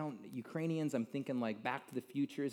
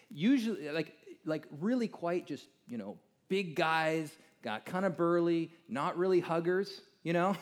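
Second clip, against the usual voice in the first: higher and louder, leaning on big; animated emphasis; 6 semitones higher, 5 dB louder than usual. Real, not acted. To the audience about burly Ukrainians, animated and amused. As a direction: playfully build up the big guys.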